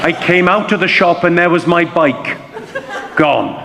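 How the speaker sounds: puzzled Welsh storytelling lilt; confused Welsh accent. Shown as a demonstration. Comedian continuing his Welsh demonstration, confused Welsh accent. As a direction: tell it bemused, in a Welsh accent. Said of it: "you've got to sound confused at the same time".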